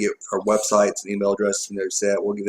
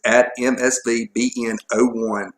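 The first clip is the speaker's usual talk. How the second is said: too fast. Real, not acted. Co-host giving out the show's Twitter handle, too fast. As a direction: reel the handle off without pausing. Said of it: "You said it too fast".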